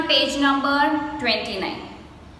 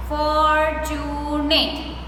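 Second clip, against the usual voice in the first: "fortunate" very slow as for-tu-nate; broken into syllables; much slower than usual. Shown as a demonstration. Teacher telling pupils how to practice, "fortunate" slowly broken up. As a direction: draw out each syllable of "fortunate". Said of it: "Try to break the word like that".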